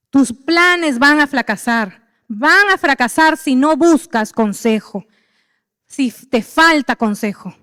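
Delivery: slow, weighted warning; slow emphatic warning. Shown as a demonstration. Preacher warning the church, slow and weighty. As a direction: lean on every word slowly. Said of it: "hay que meterlo en la cabeza".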